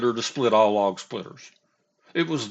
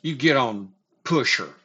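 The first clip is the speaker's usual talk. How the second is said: higher, louder mock shout of orders; retold yell; 4 semitones higher, 6 dB louder than usual. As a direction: bark the order like the angry boss. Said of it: "he's like".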